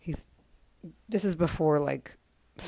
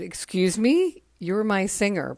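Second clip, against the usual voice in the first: higher, louder, slow mock-indignant retort; imitating a band's drummer; 4 semitones higher, 6 dB louder than usual. The drummer correcting the band's singer in a promo video, mock indignation. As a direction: put the singer in his place. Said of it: "And Charlie said".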